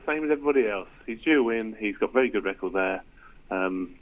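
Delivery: weary, worn-out voice; tired. Real, not acted. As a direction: sound tired from lack of sleep. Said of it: "You sound tired".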